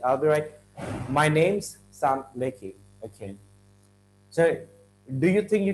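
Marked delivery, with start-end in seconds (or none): 1.1-2.7 "name's" joined into one word; contracted. Shown as a demonstration. Teacher repeats the preferred form, contracted "name's". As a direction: slowly model the contracted "name's". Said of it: "Contraction in writing tasks".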